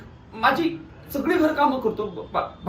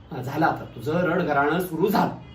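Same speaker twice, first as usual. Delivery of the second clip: low, weary annoyance; exasperated dismissal; 7 semitones lower than usual. Acted. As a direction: brush off the crying in a low voice. Dismisses grandmother's crying.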